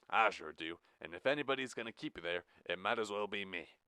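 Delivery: lightly voiced Iowan accent, level and cool; Midwestern drawl. Jack revealing his real Midwestern accent to Blue. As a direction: drop the act into a Midwestern accent. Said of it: "an American-born and American-raised Midwestern drawl".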